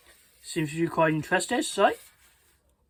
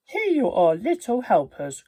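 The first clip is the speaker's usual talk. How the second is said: cheerful Grandma; 4 semitones higher than usual. Acted. Grandma greeting the boys.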